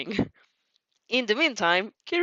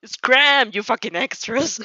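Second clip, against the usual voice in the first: snarling; 5 dB louder, slower than usual. Acted. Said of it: "Bakugo snarls".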